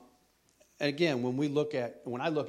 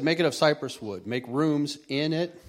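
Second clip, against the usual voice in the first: declaimed instruction; 3 semitones higher, 7 dB louder than usual. Acted. Declaims God's instructions from scripture.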